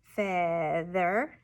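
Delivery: "Feather" broken into fea and ther; syllable-by-syllable "Feather"; chopped syllables. Shown as a demonstration. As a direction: chop "Feather" slowly into two beats, ending up. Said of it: "the students would chop it".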